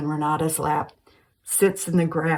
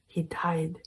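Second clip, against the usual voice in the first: whisper; 7 dB quieter than usual. A narrator's reading. Susan breaks news of father's death.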